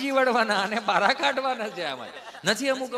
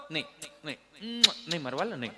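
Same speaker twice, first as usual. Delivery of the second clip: mock soothing mother; 5 semitones lower, 7 dB quieter, much faster than usual. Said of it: "માં છાની રાખતી હોય".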